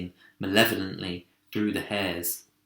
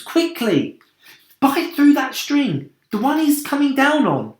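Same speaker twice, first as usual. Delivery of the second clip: urgent command; 14 semitones higher, 6 dB louder than usual. A narrator's reading. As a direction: drive him to act fast. James urgently commands the centipede.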